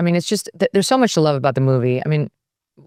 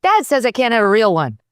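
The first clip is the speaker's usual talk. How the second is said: Mike TV imitation; 5 semitones higher than usual. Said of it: "how's your Mike T V imitation?".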